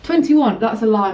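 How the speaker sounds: loud, high outburst of disbelief; indignant. Real, not acted. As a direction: call out the lie. Reading hot room thermometer, indignant.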